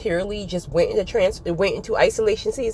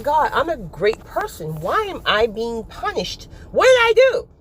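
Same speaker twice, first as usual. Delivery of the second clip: complaining to God; 4 semitones higher than usual. Retold or imitated. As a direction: act hard done by, building to an outburst. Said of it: "It's almost like".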